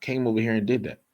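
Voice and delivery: put-on a confused old man demanding answers; mock bewildered questioning; imitating flustered Isaac. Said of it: "Pretty much, he was like".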